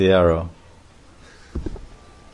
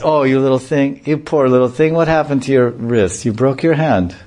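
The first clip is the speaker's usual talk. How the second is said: higher, cooing pity for the poor little thing; pitying supermarket lady; 4 semitones higher than usual. Retold or imitated. A supermarket lady coos at a young devotee in sympathy. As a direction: coo over him like a fussing auntie. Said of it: "And they say".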